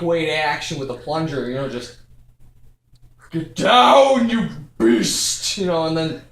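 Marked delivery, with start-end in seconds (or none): 3.3-5.6 wrestle it down with your voice; hammed-up struggle yell; mock battle cry. Acts out fighting the clogged toilet.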